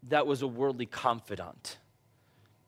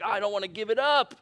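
mock whine; 5 semitones higher, much faster than usual. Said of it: "and you're like".

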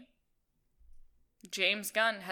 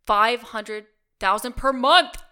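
excited; 4 semitones higher, 10 dB louder than usual. Real, not acted. Reading shocking figure aloud.

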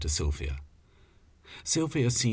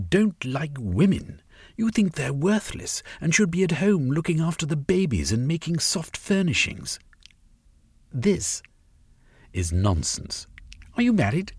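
higher, building woman's voice; Sylvia's tirade; 8 semitones higher than usual. Acted. Sylvia berating Velvein before the comrades, high and rising. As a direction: pile up the charges against him.

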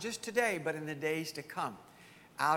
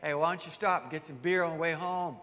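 tempting voice. Retold or imitated. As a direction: lightly coax him into a beer. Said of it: "and you hear this voice".

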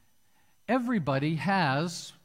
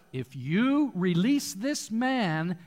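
crowd crying out; slower than usual. Retold or imitated. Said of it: "the Jews cried out".

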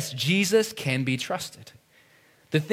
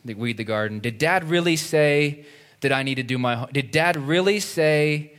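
doubting. Retold or imitated. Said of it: "They have to question".

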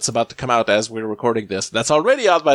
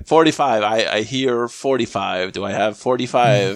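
auctioneer. Pretend. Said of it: "that was my auctioneer impression right now".

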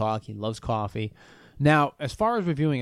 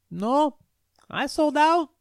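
much higher, light mock voice of the vendor; imitating the coffee guy; 4 dB louder, slower than usual. Coffee vendor telling me he sold out, mock high voice. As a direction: play the apologetic vendor up high. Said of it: "He goes".

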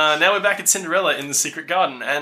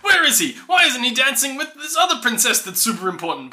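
worried officials; 8 semitones higher than usual. Retold or imitated. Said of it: "are all like".

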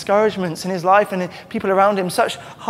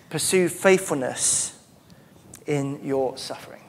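slow emphatic; 3 dB quieter than usual. Shown as a demonstration. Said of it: "Or you could say".

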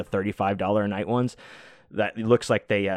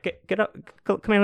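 excited urging; 10 semitones higher than usual. Retold or imitated. Urging drunk friend to get up.

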